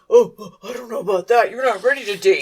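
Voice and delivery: lightly imitated worried father; hesitant dad. Dad objecting to his son dating, lightly mimicked worry. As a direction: put on a doubtful dad voice. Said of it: "and his dad's".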